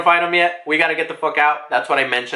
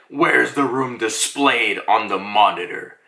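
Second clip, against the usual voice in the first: low creature voice; 6 semitones lower than usual. Retold or imitated. Acting out a creature's question.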